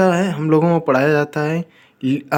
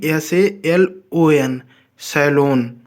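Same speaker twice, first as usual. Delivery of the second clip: slow spelling; much slower than usual. Shown as a demonstration. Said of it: "spelling letters out".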